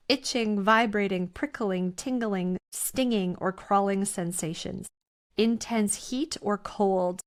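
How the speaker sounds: measured list reading; slow reading. Real, not acted. Reading listeners a list of awakening symptoms, slowly. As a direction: read each item slowly and separately. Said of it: "I'm gonna read it slowly".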